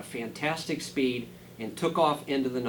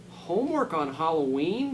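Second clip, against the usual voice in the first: moaning; 4 semitones higher, 4 dB louder than usual. Acted.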